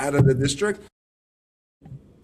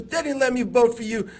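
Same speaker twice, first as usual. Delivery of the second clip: higher-pitched imitation of a mother's dismay; upset mom; 5 semitones higher than usual. Son imitating his upset mom back from the polls, higher. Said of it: "she was so upset".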